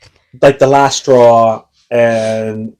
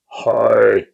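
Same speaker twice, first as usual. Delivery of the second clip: low growly croak; lightly growled vocal fry; growly lost voice; 3 semitones lower than usual. Shown as a demonstration. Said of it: "that growly".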